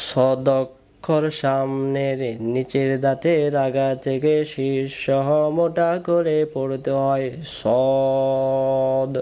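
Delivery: slow, drawn-out teaching chant; rule recitation. Shown as a demonstration. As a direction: recite it for students to repeat, stretching syllables. (ধীরে সুর করে টেনে পড়ানো)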